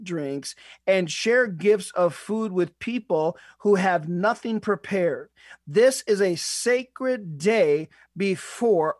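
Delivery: unhurried, weighty reading of the verse; preacher reads the verse slowly to the congregation; 1 scripture reading. Shown as a demonstration. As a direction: read the verse aloud slowly, letting it land. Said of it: "I'm reading out of the New Living Translation".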